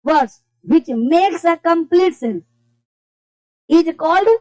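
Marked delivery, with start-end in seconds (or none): 0.1-2.4 very slow, word by word for repeating; slow dictation. Shown as a demonstration. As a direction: dictate each word slowly so students can copy. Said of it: "मेरे से दोहराना है". (धीमी गति से बोलकर लिखवाना)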